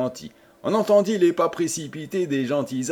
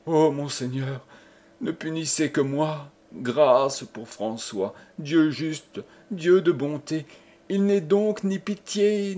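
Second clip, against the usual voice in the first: anguished begging, voice lifting; plaintive, despairing appeal; desperate pleading; 5 semitones higher than usual. Acted. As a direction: implore him for mercy. Wife begs mercy for husband.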